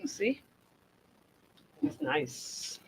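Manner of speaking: whispered. Real, not acted. Quiet remark on cup.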